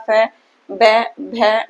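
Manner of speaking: फै, बै, भै said one by one with the lips; lip sounds demo. Shown as a demonstration. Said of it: "इसी प्रकार".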